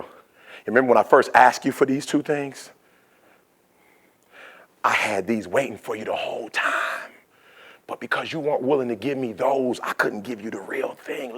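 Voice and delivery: soft, grave dad voice, unhurried; tender fatherly reveal. Acted. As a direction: break it to a child gently. Dad gently reveals the lesson.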